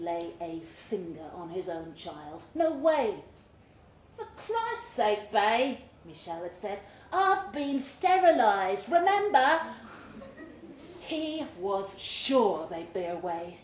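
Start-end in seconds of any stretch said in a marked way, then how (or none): 4.2-5.8 much higher, slow, fed-up woman's voice; exasperated Michelle. Acted. Michelle scolding Bay over wanting a baby, high and slow. 7.1-9.6 much higher, slow, fed-up woman's voice; exasperated Michelle. Acted. Michelle scolding Bay over wanting a baby, high and slow.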